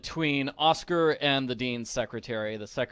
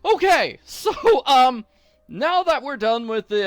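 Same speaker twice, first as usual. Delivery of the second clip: laughing it off; 9 semitones higher, 8 dB louder than usual. Real, not acted. Recovering from mock despair.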